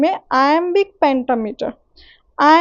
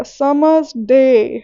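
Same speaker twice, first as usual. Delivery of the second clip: summer's day, very slow, day stretched and stressed; much slower than usual. Shown as a demonstration. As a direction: land long and firm on day after summer's. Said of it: "day पे ज़्यादा focus जाएगा". (summer's day में day पर लंबा ज़ोर)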